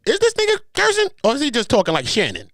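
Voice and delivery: high, puzzled voice; puzzled computer voice. Pretend. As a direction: ask it like a confused machine. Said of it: "The computer be like this".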